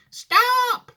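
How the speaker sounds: put-on high, loud old man's shout. A narrator's reading. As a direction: bellow stop in panic. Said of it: "shouted Grandpa Joe".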